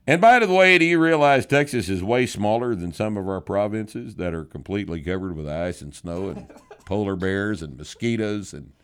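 hammed-up letter voice, laughing partway through; mock letter voice. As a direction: read it as the cocky letter writer, cracking up near the end. Reading a listener's mock letter.

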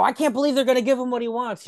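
high, fast disbelieving chatter; mock incredulous wrestler. Wrestlers reacting backstage, mock disbelief. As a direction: sputter in disbelief.

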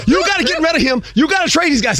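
high mock wife demanding trades; bossy wife, lightly played; imitating wife. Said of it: "She had the names and the numbers".

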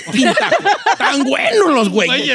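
high, drawn-out country ad slogan; sing-out the slogan high and slow; his character voice. Shown as a demonstration. Don Cheto showing the King Taco spot his way, character voice. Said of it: "Ahí se la puede hacer como yo".

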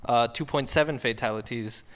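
put-on slipping German accent, reading out figures; a loosely held German accent; German-accented English that wavers. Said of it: "My accent went to crap".

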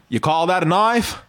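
lightly done Australian accent, broad "knife"; Crocodile Dundee. Shown as a demonstration. Host demonstrating for the guest, light Australian accent. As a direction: model an Australian movie line. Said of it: "try some old Crocodile Dundee".

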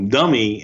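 "dummy" set apart with emphasis; stress on DUMMY. Real, not acted. Joking that he was the tackling dummy, emphasis on "dummy". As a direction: lean on the word "dummy". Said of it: "emphasis on the word dummy".

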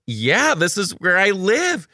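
high, slow sing-song reply; teacher voice to a child. Retold or imitated. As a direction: explain sweetly to a small kid. Answering the child.

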